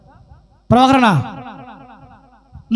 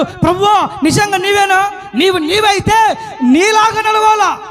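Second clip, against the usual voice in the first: fervent disciple; 5 semitones higher than usual. Retold or imitated. Voices Peter calling to the Lord.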